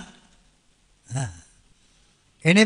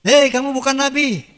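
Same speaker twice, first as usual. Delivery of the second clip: mock angry rebuke; 4 semitones higher than usual. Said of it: "Begitu nggak?".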